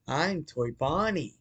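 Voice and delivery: a hint of a creepy toy rabbit, drawn out; mild mock robot bunny voice; Toy Bonnie impression. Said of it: "This is my Toy Bonnie impression".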